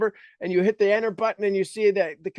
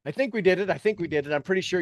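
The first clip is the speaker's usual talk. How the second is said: hopeful nerves. Shown as a demonstration. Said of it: "you're getting ready and you're like".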